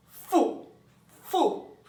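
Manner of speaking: very high, loud cry; high shout. A narrator's reading. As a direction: cry out the word. Faber yelling in ear.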